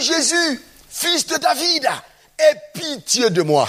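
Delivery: high, insistent retold cry. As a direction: call out harder, pitched well up. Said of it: "il cria plus fort".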